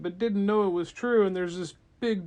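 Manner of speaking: ordinary delivery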